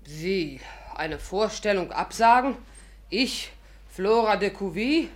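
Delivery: slow, grand, offended; indignant diva. Acted. Flora scoffs at the doctor's idea of cancelling her show, slow and indignant. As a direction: make the name sound grand and outraged.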